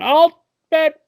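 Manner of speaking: high-pitched, hammed-up bidder voice; mock rich man bidding; rich auction bidder. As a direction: call out a bid in a silly high voice. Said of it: "these rich guys going".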